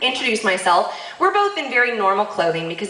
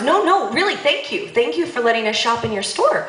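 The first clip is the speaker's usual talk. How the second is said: overly sincere thanks; 2 semitones higher than usual. Retold or imitated. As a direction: imitate a hurried, insistent thank-you. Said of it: "That wasn't very sincere".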